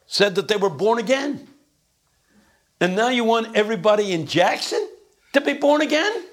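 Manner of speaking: high, halting mock-humble sharecropper; John Perkins impression. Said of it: "he talks just like this".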